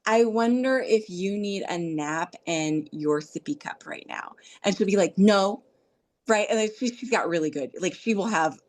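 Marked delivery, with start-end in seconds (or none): 0.0-4.3 tentative, soothing prompt; gentle suggestion. Acted. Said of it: "I will just simply suggest something". 5.2-5.6 loud, blunt little no; emphatic mock refusal; toddler's refusal. Grandmother voices toddler's refusal.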